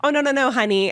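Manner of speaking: lightly voiced camp man; a hint of a flamboyant honey; mildly camp reassuring tone; camp reassurance. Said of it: "very over-exaggerated gay voice".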